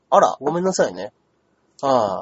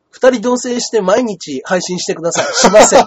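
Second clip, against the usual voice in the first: laughing; 2 semitones higher, 6 dB louder than usual. Real, not acted. Laughs at a viewer's request.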